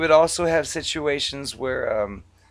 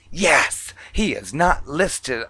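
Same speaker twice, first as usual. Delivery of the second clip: indignant caller; much slower than usual. Retold or imitated. Acted caller snaps back at rep.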